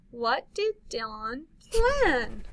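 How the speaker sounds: slow, wondering question; questioning read. Shown as a demonstration. Teacher modeling a question, slow and wondering. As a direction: ask it like you don't know. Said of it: "This means we don't know".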